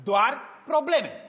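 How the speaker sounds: "Doar probleme" very slow, word by word; slow model pronunciation. Shown as a demonstration. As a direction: model "probleme" clearly for a pupil. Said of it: "Spuneți cuvântul probleme".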